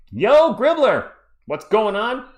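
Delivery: high, loud, drawn-out call; stretched-out shout hello; loud greeting. Real, not acted. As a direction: hail a friend across the room. Greeting a chatter loudly.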